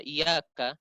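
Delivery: "iyyaka" with a single light y, as "iyaka"; without tasydid. Shown as a demonstration. Teacher shows the meaning changes, tasydid dropped. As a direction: say "iyyaka" with no doubling. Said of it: "kalau seandainya dihilangkan tasydid".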